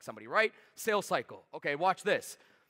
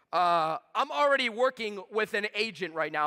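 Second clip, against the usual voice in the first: slow, reluctant prospect voice; role play objection; 3 semitones higher, 5 dB louder, slower than usual. Pretend. Coach playing the buyer to start role play, slow and reluctant. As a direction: play the stalling buyer, dragging it out. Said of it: "somebody's gonna role play with me".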